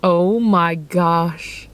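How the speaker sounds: slow, drawn-out oh my gosh; awed. Real, not acted. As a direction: savour each word in awe. Awe at the croissant.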